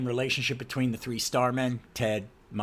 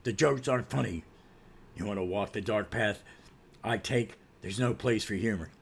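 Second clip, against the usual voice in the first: lightly lowered stern hero voice; measured, humorless delivery; Batman; 3 semitones lower than usual. Acted. Superhero scolding his joking partner, stern and slightly low. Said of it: "And then Batman goes".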